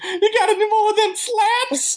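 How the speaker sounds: high, slow laughing tease. Pretend. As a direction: giggle the words out. Teasing with laughter.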